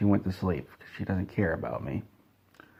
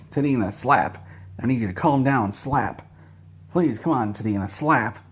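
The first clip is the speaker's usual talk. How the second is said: higher, pushier pleading between slaps; exasperated scolding; 3 semitones higher than usual. Retold or imitated. Scolding cat while slapping.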